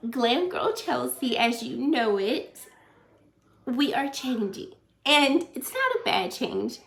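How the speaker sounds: halting, teary confession to viewers; crying. Real, not acted. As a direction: speak through real tears, voice catching. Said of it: "oh my gosh, I am crying".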